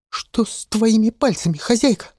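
put-on boy shocked at her ruined fingers; horrified young boy asking; frightened boy.

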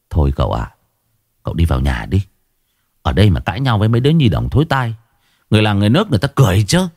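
calm him down, then hurry the words; mild consoling. Acted. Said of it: "vỗ vai an ủi". (giọng trầm an ủi, nói nhanh dần)

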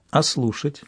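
soft gentle ask; tender question. Acted. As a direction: coax him gently. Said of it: "ласково поинтересовался корабль".

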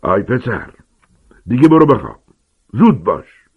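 loud angry yell, rising on the command; furious shout. Acted. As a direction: bellow at the boy to go to bed. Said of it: "با حالت غضبناکی فریاد زد".

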